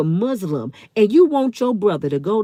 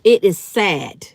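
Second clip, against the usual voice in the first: slow sad; 3 semitones lower, slower than usual. Real, not acted. Lamenting her own people.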